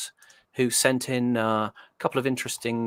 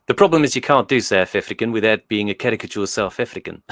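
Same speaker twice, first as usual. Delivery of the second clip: laughing; 9 dB louder than usual. Real, not acted. Laughing while explaining accent attempt.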